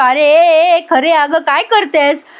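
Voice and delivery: hammed-up yelp of protest while being pulled; mock yell. Husband yelps as wife pulls him back. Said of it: "अद्वैत ओरडतो आणि म्हणतो".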